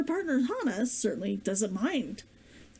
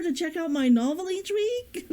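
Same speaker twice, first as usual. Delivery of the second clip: laughing; 4 semitones higher than usual. Real, not acted. Emotional thanks to viewers.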